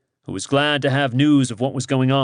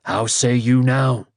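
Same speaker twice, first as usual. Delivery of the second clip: slow, lower, proud godlike tone; deep, proud voice. Acted. The speaker as Rhiannon answers Owain, deep and proud. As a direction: speak with brooding majesty. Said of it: "the deep, proud voice".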